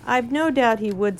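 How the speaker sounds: talking through a mouthful; words muffled by grass; mouth full. Acted. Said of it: "still with his mouth full".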